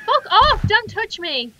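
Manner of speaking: loud, high-pitched outburst; angry repelling. Real, not acted. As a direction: yell to fend off an attacker. Player fends off attacking monster.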